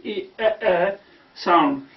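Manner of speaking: E held long and slow; drawn out E. Shown as a demonstration. Teacher stretches E slowly for learners. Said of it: "we can see this E sound".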